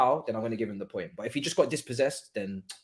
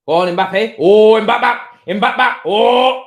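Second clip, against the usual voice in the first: loud, rising cheer for the striker; excited cheering; 4 semitones higher, 12 dB louder, much slower than usual. Real, not acted. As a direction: urge him on at full volume. Cheering Mbappe's run.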